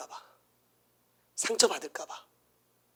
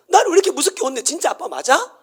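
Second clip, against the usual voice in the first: put-on childlike complaint; 6 semitones higher than usual. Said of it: "아니, 왜 이렇게 나를".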